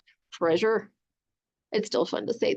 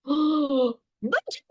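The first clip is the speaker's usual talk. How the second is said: sharp gasp then a higher but; gasping cry; 4 semitones higher than usual. Acted. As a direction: gasp at what he sees. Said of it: "he cried".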